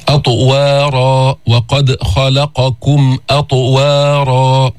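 أطوارا with a bounced, echoing ط, slow; qalqala demo. Shown as a demonstration. Teacher demonstrating qalqala for the class, slow and emphatic. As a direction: strike the ط in أطوارا and let it rebound. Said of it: "حتى تسمع له نبرة قوية".

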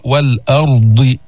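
"والأرض" slow with a thick ra; heavy ra. Shown as a demonstration. Teacher asks for a heavy ra in "والأرض", slow. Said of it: "فخم الراء".

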